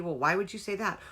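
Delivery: mock snarky retort; a touch of snark in the question; lightly sarcastic comeback. Shown as a demonstration. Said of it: "that snarky".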